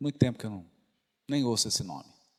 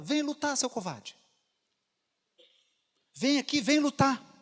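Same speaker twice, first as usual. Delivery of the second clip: high, loud taunt at a coward; furious villain calling someone out; angry challenge; 9 semitones higher, 4 dB louder than usual. Acted. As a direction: dare him to fight, shouting. Gregório challenges to a fight.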